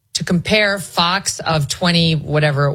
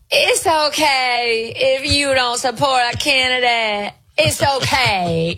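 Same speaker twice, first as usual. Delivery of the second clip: drawn-out, higher-pitched put-on Black accent; mock Black accent; 6 semitones higher, much slower than usual. Commentator mimicking politician to radio host, mocking Black accent. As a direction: stretch each vowel in an exaggerated Black accent. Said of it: "What's with the black scent?".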